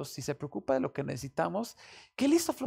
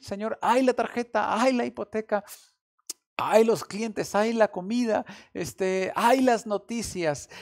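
louder, higher string of pleading sighs to the Lord; mock laments; 4 semitones higher, 5 dB louder than usual. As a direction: play the worried believer crying ay over each bill. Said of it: "podríamos decir".

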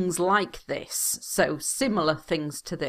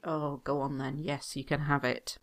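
softer, worn-down sigh of a parent; tired giving in; 3 semitones lower, 6 dB quieter than usual. Retold or imitated. Parent giving in to a pestering son, softer and worn down. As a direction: give in with a soft, tired sigh. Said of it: "eventually you get tired and just say".

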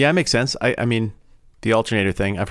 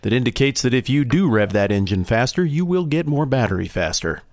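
bartender voice; 5 semitones higher, 3 dB louder than usual. Pretend. Bartender character answers.

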